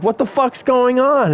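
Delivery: high-pitched imitation of bewildered friends; retold alarmed question. Retold friends confused by the crash.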